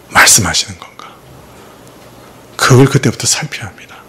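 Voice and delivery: whispered sermon advice. Real, not acted. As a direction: lean in and whisper the counsel. Preacher drops to intimate advice.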